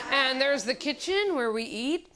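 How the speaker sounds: hammed-up sitcom father tour; corny sitcom dad welcoming baby home; cheesy TV dad. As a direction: play a corny TV dad showing the house. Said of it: "felt like a dad in some bad T V movie".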